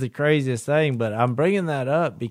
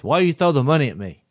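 quick, curt and a bit louder, imitating a rude clerk; 4 dB louder, faster than usual. Cashier rebukes customer for tossing money, mock rude. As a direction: snap it back like a brusque cashier. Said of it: "said it kind of rudely".

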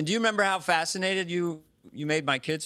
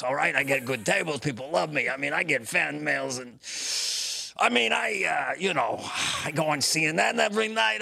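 a loose, hammed-up Doctor Fauci bragging; lightly voiced Fauci, cocky and pleased with himself; Fauci impression. Host doing Fauci as a cocky star, mock bragging. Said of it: "it's not my most accurate impression".

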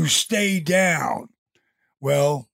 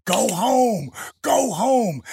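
higher-pitched mock referee yell; retold screaming; 5 semitones higher, slower than usual. Referee to wrestlers as the show runs out, mock screaming. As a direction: call it out like a referee urging wrestlers to finish. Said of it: "the referee up till that point was screaming".

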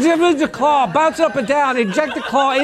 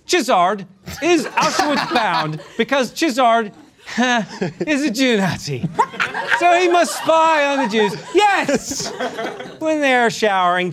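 laughing. Real, not acted. Reading absurd passage, cracking up.

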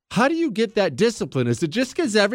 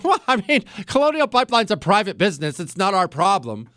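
mock Psaki shrug. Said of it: "Jen Psaki shrugged her shoulders and said".

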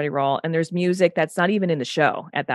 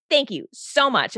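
mock gushing thanks; 8 semitones higher than usual. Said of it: "I'm like".

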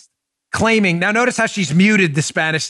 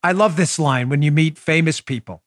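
ordinary talk

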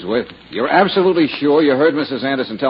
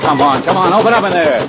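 loud, raised call through a shut door; impatient call; 7 semitones higher, 6 dB louder than usual. Acted. Man calling to whoever is inside a locked house, impatient shout. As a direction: demand to be let in, rising louder and higher.

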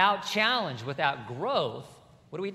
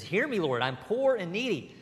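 1 desperate plea; 2 semitones higher than usual. Acted. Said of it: "the prayer of a desperate man, and you can hear it".

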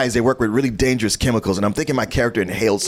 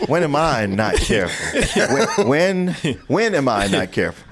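slow, laughing line read with a rising end; amused line reading; 2 semitones higher than usual. Shown as a demonstration. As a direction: try the line with a chuckle, as a playful question. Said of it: "whichever one you wanna go with".

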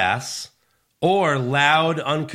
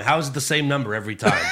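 mock outrage; much faster than usual. Real, not acted.

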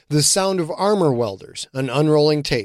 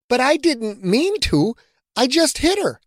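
upset; 12 semitones higher than usual. A narrator's reading. Rebecca upset about the death.

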